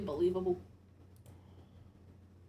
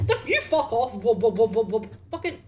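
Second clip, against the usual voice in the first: scared horror game streamer; 2 semitones higher, 9 dB louder than usual. Real, not acted. Panicked outburst and babble.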